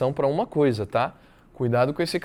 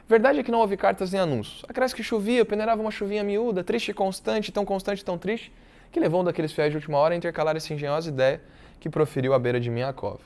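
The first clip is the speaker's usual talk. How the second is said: measured read-aloud, dropping away at the close; literary reading; 3 semitones higher than usual. Acted. Teacher reads Brás Cubas's account to the class, literary reading.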